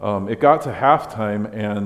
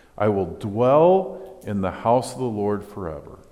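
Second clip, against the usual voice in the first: normal talking voice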